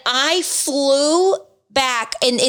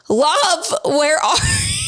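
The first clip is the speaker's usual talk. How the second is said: calling out; 6 semitones higher, slower than usual. Retold or imitated. Calling out in dark haunted house.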